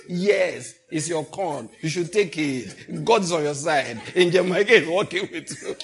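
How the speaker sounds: loud, laughing mock cheer of agreement; emphatic yes. Preacher mimicking a congregant's loud yes, laughing mock cheer. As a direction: egg him on like an eager congregant. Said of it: "The yes was so emphatic".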